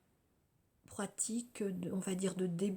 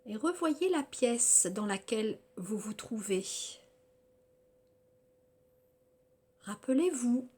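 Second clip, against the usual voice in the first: measured yoga nidra guidance with long pauses between phrases; guided relaxation; 6 semitones higher, 5 dB louder than usual. Acted. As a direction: guide them through body and senses, phrase by phrase.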